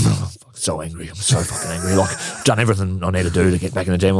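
low, muttered mock fuming; snarling teammate. Angry teammate venting after being left out, mock snarling. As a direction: grumble it softly, imitating an angry teammate. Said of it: "you could hear him snarling".

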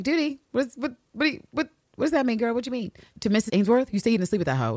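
high-pitched, stammering incredulity; mock outraged disbelief. Ann Lister challenging Ann Walker over duty, mock outraged. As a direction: sputter questions in an imitated squeal of disbelief.

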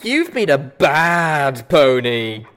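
slow, loud robotic pony voice; mechanical Pinkie Pie. A narrator's reading. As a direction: scold like a creepy cheerful robot. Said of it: "disturbingly like a mechanical Pinkie Pie".

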